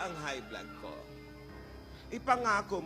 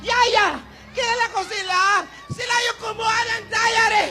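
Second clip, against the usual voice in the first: loud, frantic grandma yells; frantic shouting; 4 semitones higher, 4 dB louder than usual. Acted. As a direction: yell after the thieves in a panic. Grandma yelling at thieves.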